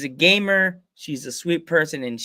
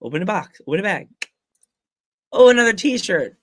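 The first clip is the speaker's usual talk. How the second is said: eager parents; 5 semitones higher, 6 dB louder than usual. Retold or imitated. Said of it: "And they're like".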